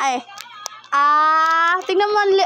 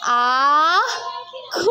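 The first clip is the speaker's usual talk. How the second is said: put-on cooing for baby to copy. Shown as a demonstration. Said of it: "gayahin mo ang bibig ni Mama".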